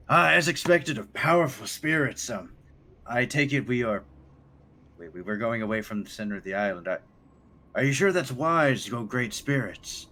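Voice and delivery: high, loud reverent voice; eager tribal guide. Acted. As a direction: gush with awe. Moon tracker NPC voice.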